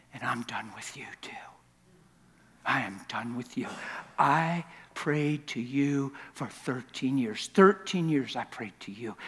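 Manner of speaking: mostly whispered, hushed and broken; wife's bitter prayer. Retold or imitated. Wife in the bedroom telling God she is done, whispered. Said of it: "she said".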